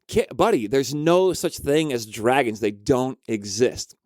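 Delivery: slow, deliberate mock-parent insistence; patient denial. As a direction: spell it out slowly to a child. Mom patiently denies the dragon.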